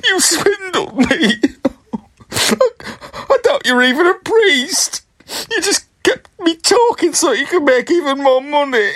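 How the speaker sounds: put-on crying old woman, voice breaking; tearful accusation. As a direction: sob out the betrayal, slowed. Scammed pensioner accuses fake priest.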